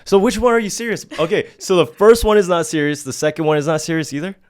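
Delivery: high, loud and baffled questioning; incredulous. Real, not acted. Host questioning guest who admits she wasn't serious, incredulous.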